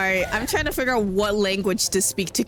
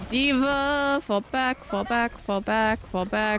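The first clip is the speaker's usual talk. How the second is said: frantic retreat order; 4 semitones higher, slower than usual. Real, not acted. Calling teammate to retreat.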